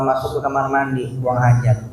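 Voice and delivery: ordinary delivery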